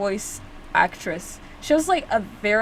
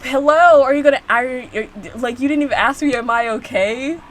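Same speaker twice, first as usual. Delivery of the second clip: indignant; 6 dB louder than usual. Pretend. Indignant talking back to character.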